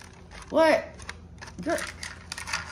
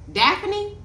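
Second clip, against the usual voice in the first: puzzled; 12 semitones higher than usual. Real, not acted. Puzzling over a sender's name.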